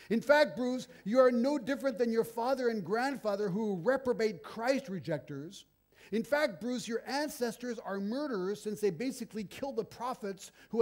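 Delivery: loud, high, hammed-up condemnation; mock fiery rebuke. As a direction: pile the charges on him at full volume. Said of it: "you end it this way".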